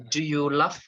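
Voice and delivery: "love" ending in f, like "luff"; mispronunciation. Shown as a demonstration. Teacher contrasting two readings, "love" said with an f. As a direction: say "love" with a final f. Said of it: "maybe you have mis-, uh, mispronunciation".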